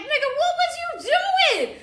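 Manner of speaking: high, loud yell through laughter; laughing yell. Retold or imitated. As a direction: holler at her while cracking up. Yelling at friend who ran.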